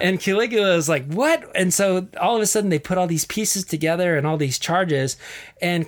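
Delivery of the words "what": very high mock astonished what; a squeaky, hammed-up shocked what; shocked emperor. Caligula hearing the charges, mock shock, very high.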